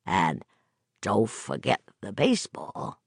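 put-on slurred drunken words; drunk slurring. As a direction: let the words slur together. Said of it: "He was slurring now".

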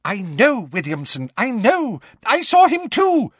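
high breathless gabbling; gibbering. Acted. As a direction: babble it out in a panic. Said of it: "gibbered Fudge".

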